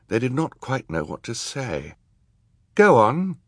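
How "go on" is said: high, lilting encouragement; kindly. A narrator's reading. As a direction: coax them kindly to begin. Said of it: "Justice Strauss said kindly".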